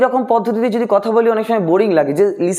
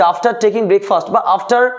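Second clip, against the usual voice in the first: slow dictation; much slower than usual. Shown as a demonstration. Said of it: "V one লেখা রয়েছে".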